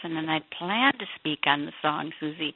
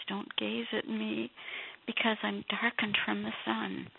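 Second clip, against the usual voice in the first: ashamed woman; 4 semitones higher, 3 dB quieter than usual. Retold or imitated. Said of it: "And she says".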